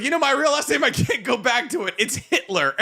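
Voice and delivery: deadpan Norm-style reveal, lightly done; Norm Macdonald impression. Rex telling Ray his real last name, mild Norm Macdonald impression. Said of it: "my best Norm Macdonald impersonation".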